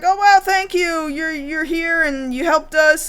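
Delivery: impressed, grateful imitation. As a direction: gush thanks, lightly acted. Acting a grateful crowd.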